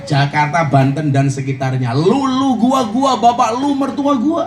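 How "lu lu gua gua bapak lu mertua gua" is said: Betawi slang. Retold or imitated. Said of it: "dengan bahasa Betawinya".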